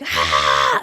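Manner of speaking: a mild mock yell, a short "Ah!"; retold loud scream. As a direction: imitate his scream from the backyard, half-hearted. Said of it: "like, really loud in the backyard".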